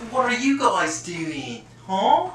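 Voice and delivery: put-on loud, slow old-time cop drawl; 1930s beat cop. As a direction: bust in like a nosy beat cop. Mock cop busts in on viewers.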